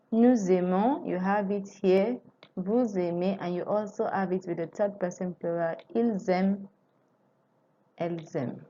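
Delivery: nous aimons with a z linking into aimons; liaison. Shown as a demonstration. Teacher points out the liaison to students. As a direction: link the s as z into the vowel. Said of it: "So that's liaison".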